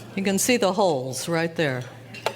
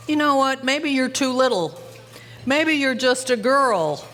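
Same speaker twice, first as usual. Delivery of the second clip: higher-pitched, mock-doubting dad; retold goading father; 5 semitones higher than usual. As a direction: imitate a dad needling his little daughter.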